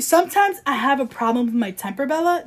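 quoted line turned into a question; incredulous repeat. Retold or imitated. Host repeating his temper confession, incredulous. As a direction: echo it in disbelief, rising on the name.

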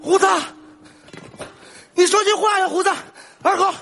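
high-pitched, desperate calls to unresponsive friends; high pleading calls; calling out. Acted. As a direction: cry out to rouse them, pitched well up. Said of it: "别喊了".

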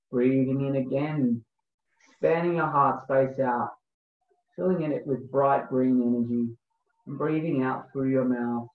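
slow, calm breathwork guide voice; guided meditation. Acted. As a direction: lead the breathing gently, unhurried.

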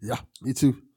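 whispered agreement, unvoiced. Real, not acted. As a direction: breathe it as a quiet aside. Quiet agreement aside.

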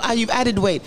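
high-pitched mock Nigerian remarks; imitated Nigerian accent. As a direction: mimic blunt Nigerian relatives. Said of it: "Nigerians would just say".

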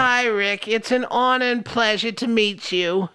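lightly voiced old grandma; a hint of a sweet grandma; old lady voice. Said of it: "One more time".

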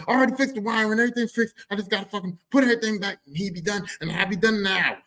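a touch of the hurried dad. Retold or imitated. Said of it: "My dad go".

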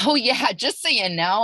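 high, loud, laughing retort; mock-casual reply. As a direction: blurt it high with a laugh, retelling an awkward moment. Retelling her awkward reply at Easter.

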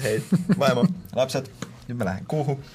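cheery goodbye. Pretend. Pretend astronaut leaving home.

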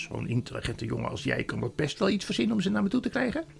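high, sugary conspiratorial queen; scheming queen. Acted. Queen shares a secret with Edmund, coaxing and high. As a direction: flatter and coax in a high lilt.

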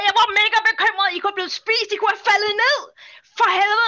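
worried scolding. Acted. Friend scolds Flynn for flying off, worried scolding. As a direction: scold out of worry.

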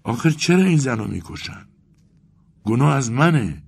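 high, anguished plea; heart-rending. A narrator's reading. Weeping Vasya blames himself, heart-rending cry. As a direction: plead it out, pitch lifted in anguish. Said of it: "با لحنی دلخراش گفت".

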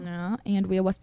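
Andrea Wusset with R's as W's; cutesy baby talk. Shown as a demonstration. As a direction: say Wusset with a soft W. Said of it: "you just replace the R's with W's".

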